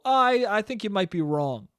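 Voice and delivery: mild, tentative disagreement; calm. Acted. Showing how an older person disagrees, calm. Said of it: "to b-, calmly go".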